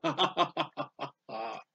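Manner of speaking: imitating God laughing at man. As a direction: derisive mock laugh, trailing away softly. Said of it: "God's going".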